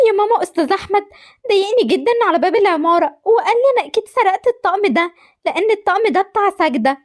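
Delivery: put-on a hurt girl begging her mum for the truth; upset daughter. Daughter begs mother to tell the truth, pleading.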